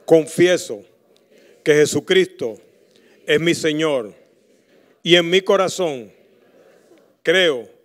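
slow, measured prayer for the church to repeat; earnest congregational prayer; leading prayer. Acted. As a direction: pause so the people can repeat each phrase.

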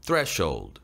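"threshold" with sh blended into one sound; low, falling "threshold" with a single sh. Shown as a demonstration. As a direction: join s and h in "threshold". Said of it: "에스에이치를 묶음으로 한 번에 발음을".

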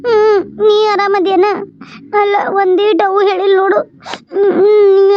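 weepy concern, with crying between phrases; hurt and close to sobbing; tearful. Acted. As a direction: ask after him through tears. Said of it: "ಅಳಕ್ ಹೋಗ್ಬೇಡ".

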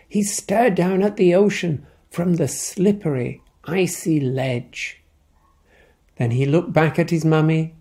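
lively picture-book reading; story narration. A narrator's reading. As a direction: tell it to a child at bedtime. Reads picture book aloud.

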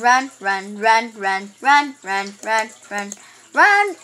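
urgent shouting. Real, not acted. Urging escape in game.

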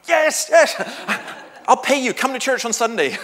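high, loud reply broken by laughter; giddy laughing yes. Retold or imitated. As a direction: laugh through the answer.

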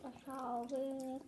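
talking through a bite of cookie; speaking while eating; mouth full, chewing. Real, not acted. Seen 1: girl keeps cookie at lips, biting and chewing between words.

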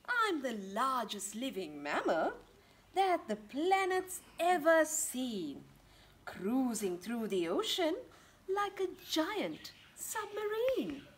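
a hint of a grand whale, slow at the end; slow, grand whale rhyme; lightly voiced blue whale. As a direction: cruise through the lines like a submarine. Whale speaks in book.

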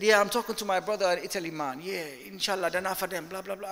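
lightly imitated Jamaican accent; mock Jamaican accent. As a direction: imitate a hyped worker with a put-on Jamaican lilt. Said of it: "why are you speaking to me like a Jamaican".

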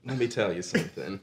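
soft, breathy posing voice; photo-shoot pose promo. Acted. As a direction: seductive photo-shoot murmur. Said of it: "pose as if in photo shoot".

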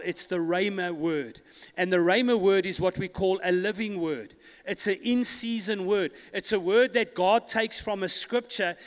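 driving, emphatic pulpit delivery; impassioned preaching. Real, not acted. Preacher telling the church about the living word, impassioned.

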